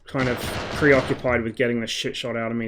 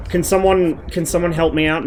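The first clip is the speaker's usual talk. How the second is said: urgent call for help; 3 semitones higher, 6 dB louder than usual. Real, not acted. Calling for medic help.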